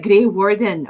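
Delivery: anchor phrase in a Scottish accent. Shown as a demonstration. Streamer demonstrating an accent anchor, Scottish accent. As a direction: say it with a Scottish lilt. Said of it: "when I do Scottish, I'm always like".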